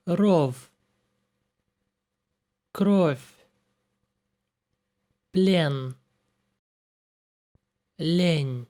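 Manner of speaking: Ров then Кровь with the soft sign softening the last consonant; hard and soft sign pairs. Shown as a demonstration. Teacher contrasts hard and soft endings for learners. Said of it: "Soft sign makes consonant soft".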